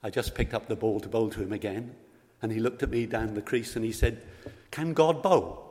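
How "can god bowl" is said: put-on a boy's delighted high question, laughing; excited child. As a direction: ask it high and bright like an excited little boy. Boy asks cheekily at cricket.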